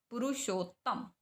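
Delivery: पुरुषोत्तम as "pu-ru-shot-tam"; "sho" closed by a doubled t in पुरुषोत्तम; double-ta pronunciation. Shown as a demonstration. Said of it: "ओ की sound". (पुरुषोत्तम में दोहरा त)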